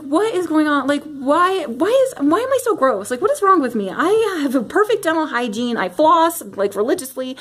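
spiral into panic; exasperated. Retold or imitated. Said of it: "so I was like".

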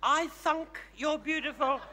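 coaching demo of the line; model line. Shown as a demonstration. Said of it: "don't give up".

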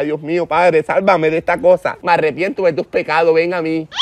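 low, hurried plea to God; panicked prayer. Acted. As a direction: pray your way out of the mess.

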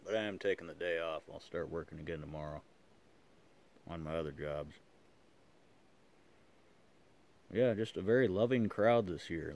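talking around pipe stem; clenched teeth speech; pipe in mouth. Real, not acted. Seen 1: Pipe clenched in teeth throughout labelled words; smoke puffs visible.

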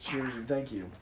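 soft whispered thanks. Real, not acted. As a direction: breathe it as a whisper.

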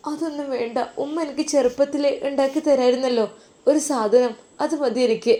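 put-on a shy young daughter asking sweetly; little girl voice. Little girl answering her mother.

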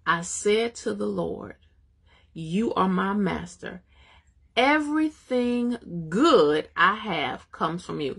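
slow, deliberate reading of the verse; scripture reading. Real, not acted. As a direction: read the psalm slowly and reverently.

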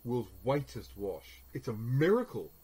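ad-style exclaim. Shown as a demonstration. Teacher reading the advert's claim aloud to the class, punchy ad voice. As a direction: sell the miracle like the advert.

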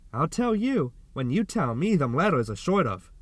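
a light flirty tease; lightly flirtatious, teasing him back. Acted. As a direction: coax him playfully with a hint of flirting. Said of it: "a hint of flirtatiousness in her tone".

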